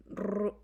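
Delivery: "ru-" with a heavy R; marked R. Shown as a demonstration. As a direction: exaggerate the R of "ru-" as the wrong way. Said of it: "esa R marcada".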